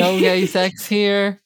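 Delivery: lightly mocking; mock bouncer line. Podcaster repeating the bouncer's claim to friends, slow. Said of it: "He says".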